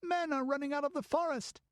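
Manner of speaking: put-on high, hushed girl's alarm; frightened girl. Girl warns Balessa of howling, frightened. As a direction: warn of distant wolves.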